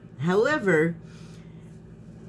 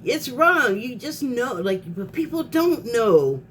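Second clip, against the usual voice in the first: getting worked up; 4 semitones higher than usual. Real, not acted. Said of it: "I'm getting worked up".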